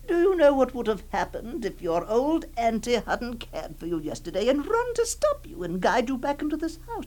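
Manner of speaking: lightly voiced doting aunt, hushed and insistent; aunt gently frightening the child to keep her inside; a touch of a coaxing auntie. Auntie coaxing child, held role.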